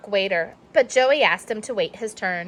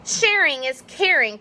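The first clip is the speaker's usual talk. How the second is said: grumbled; 5 semitones higher than usual. Acted. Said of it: "Clark grumbled".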